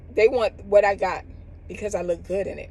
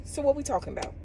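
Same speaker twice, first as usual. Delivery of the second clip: imitating a petty comeback; 7 semitones higher, 5 dB quieter, faster than usual. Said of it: "He said".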